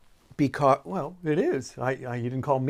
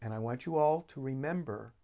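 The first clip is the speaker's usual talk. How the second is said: soft and warm. Retold or imitated. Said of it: "being so soft and warm".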